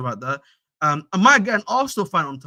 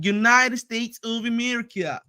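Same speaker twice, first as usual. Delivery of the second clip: slow, higher mock American accent; terrible American accent; 6 semitones higher, slower than usual. Streamer repeating the country's name, terrible American accent. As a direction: badly fake an American accent, dragging each word. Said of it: "That was a terrible accent".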